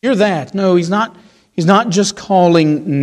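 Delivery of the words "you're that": mock schoolchild taunt. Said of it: "like school children".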